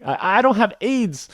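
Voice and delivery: high, loud, urgent rattling off; hammed-up patient reciting everything he doesn't have; eager rattled list. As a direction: rush through the list to get it over with. Reciting list over aizuchi.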